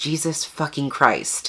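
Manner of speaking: hushed, exasperated curse whispered under the breath. Just finished editing 253 photos for a video, whispered curse.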